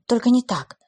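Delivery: tearful, pleading; sobbing plea. Acted. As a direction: beg through sobs. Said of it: "всхлипывая".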